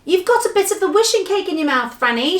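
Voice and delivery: high, urgent shouted news; excited shout. Acted. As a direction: shout it in great agitation. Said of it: "shouted Moonface".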